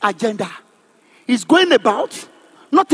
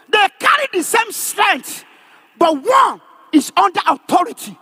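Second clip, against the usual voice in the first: emphatic, raised-pitch sermon delivery; forceful preaching; 6 semitones higher than usual. Real, not acted. Preacher explains the soldier under authority to a congregation, forceful preaching. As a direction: drive each phrase home to the congregation.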